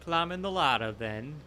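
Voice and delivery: British villain, loud and high at first; bad British. Remarking on a pal's climb, in a bad British accent. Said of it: "bad British".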